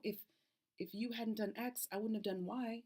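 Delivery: 1 defensive excuse. Retold or imitated. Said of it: "So when you say".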